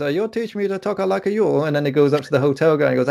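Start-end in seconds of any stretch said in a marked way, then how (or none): 0.0-1.6 higher-pitched film-character impression; Borat. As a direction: put on a comic foreigner's voice, pitched up. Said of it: "that scene in Borat when he goes".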